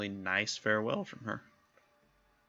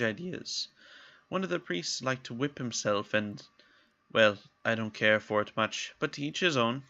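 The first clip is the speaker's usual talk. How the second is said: put-on light lilting Irish accent; Irish-ish accent; 3 semitones higher than usual. The speaker answering Victor's questions, light Irish accent. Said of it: "I'm still doing that accent".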